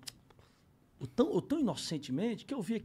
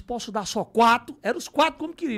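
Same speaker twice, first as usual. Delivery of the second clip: raised, higher quoted voice; retold haggling; 6 semitones higher, 8 dB louder than usual. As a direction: call it out loud, retelling the deal. Retold haggling over the iPhones.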